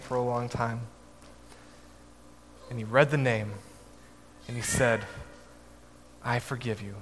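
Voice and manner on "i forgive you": "I forgive you" said much softer, barely above a murmur; hushed forgiveness. Retold or imitated. Dad forgives his first debtor after long struggle, hushed. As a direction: let "I forgive you" come out small and hard-won.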